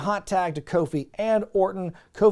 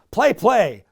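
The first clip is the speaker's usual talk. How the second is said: Swoggle voice; 6 semitones higher, 6 dB louder than usual. Retold or imitated. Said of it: "Swoggle says".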